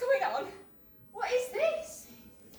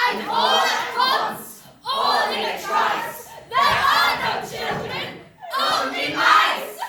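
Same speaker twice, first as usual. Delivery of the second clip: slow loud climax; 2 semitones higher, 5 dB louder, slower than usual. Acted. Climax of the witches' song.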